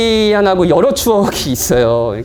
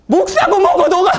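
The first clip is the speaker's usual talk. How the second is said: high, hammed-up angry outburst; mock furious yell; 14 semitones higher, 4 dB louder than usual. Preacher plays someone raging on despite the pastor, mock furious yell. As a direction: pretend rage, voice thrown way up. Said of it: "계속 화를 내시겠어요?".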